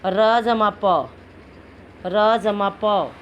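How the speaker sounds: very slow dictation of the letters; slow spelling out. Shown as a demonstration. Teacher spelling letters for pupils, very slow. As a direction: drag out each letter for the class. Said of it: "और उससे आगे देखिए".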